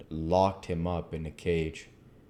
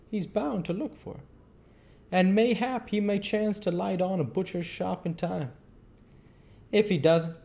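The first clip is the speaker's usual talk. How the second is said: higher, folksy Cockney keeper, chatty; a genial old keeper spinning a yarn; an old keeper chatting to a reporter; old zookeeper; 10 semitones higher, 4 dB louder than usual. A narrator's reading. Keeper's long speech.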